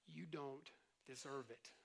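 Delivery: a low, quiet, slow taunting voice; mocking enemy. Pastor voices the enemy's doubts, low and mocking. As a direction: sneer the doubts slowly and softly.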